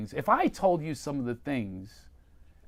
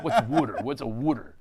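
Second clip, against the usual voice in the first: put-on Philly accent; 4 dB louder than usual. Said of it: "it's an awful accent".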